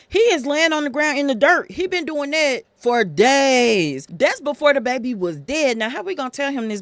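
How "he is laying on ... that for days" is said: scared servants. Retold or imitated. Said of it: "They were scared".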